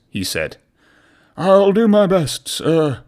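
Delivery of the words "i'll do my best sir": brave. A narrator's reading. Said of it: "Harvey said bravely".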